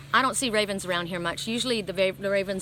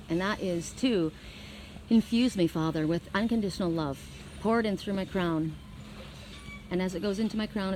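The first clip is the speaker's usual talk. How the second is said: guided meditation. Acted. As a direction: guide the listeners gently into the light. Leads healing meditation.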